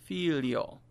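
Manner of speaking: figlio as "feel-yo"; Italian GLI sound. Shown as a demonstration. Teacher breaks down the word for pupils, figlio as "feel-yo". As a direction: glide from L into "yo" in figlio. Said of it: "with the F I in front of it".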